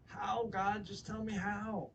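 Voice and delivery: high plea, easing off from the shout; exasperated plea. Retold or imitated. Preacher replays begging God to tell him how, pleading. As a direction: drop the volume but keep the pitch up, slowing down.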